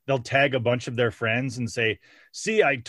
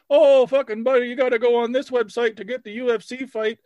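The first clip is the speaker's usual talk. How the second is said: loud, high hyped-up bro; high mock bro voice; 12 semitones higher, 5 dB louder than usual. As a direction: squeal it like an excited dude. Commenter pushing fight stream site.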